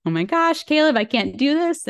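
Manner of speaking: high-pitched mock plea to husband; retold panic. Retold panic during labor contraction.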